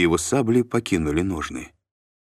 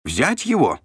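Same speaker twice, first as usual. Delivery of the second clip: higher, louder commanding shout; 7 semitones higher, 4 dB louder than usual. A narrator's reading. Shlom orders the guards to seize Mashek, shouting. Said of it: "закричал Бар Иоганн".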